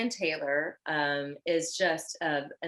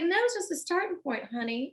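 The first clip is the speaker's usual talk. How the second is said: Southern voice; 11 semitones higher than usual. Retold or imitated. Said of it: "in her very Southern voice".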